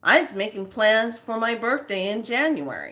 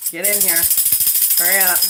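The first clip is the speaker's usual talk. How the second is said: louder, urgent call to latecomers; 4 dB louder, faster than usual. Real, not acted. Host urging late viewers to come in, calling out. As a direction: hurry them in, calling out.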